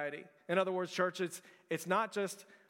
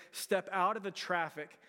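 slow, tender reading; slower than usual. Shown as a demonstration. Preacher reads Peterson's paraphrase to church, slow and tender. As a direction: draw each phrase out gently. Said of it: "he says".

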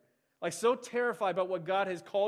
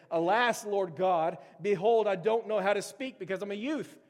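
a little louder, dramatic plea; mild protest; 4 dB louder than usual. Acted. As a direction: plead an excuse to God. Reads Jeremiah's protest dramatically.

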